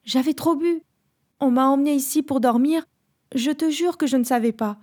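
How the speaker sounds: high, pleading excuse; desperate pleading. Acted. Nathalie swearing to her fiancé she didn't know, pleading high. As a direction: beg him to believe you. Explaining herself to fiancé, begging.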